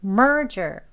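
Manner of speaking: "merger" as strong MER, light "jer"; stress on first syllable. Shown as a demonstration. Teacher's repeat-after-me model, "merger" front-stressed. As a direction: round the lips on MER in "merger", let "jer" drop. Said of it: "mer 할 때 입술 내미시고".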